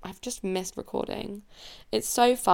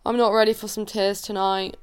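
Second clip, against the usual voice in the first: louder, pushing back the tears; loud emotional outburst; 6 dB louder than usual. Real, not acted. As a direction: blurt it out loud to hold off crying.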